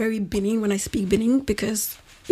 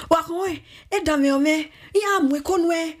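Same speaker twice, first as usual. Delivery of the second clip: mom scolding in Benin; 6 semitones higher than usual. Retold or imitated. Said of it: "when they say".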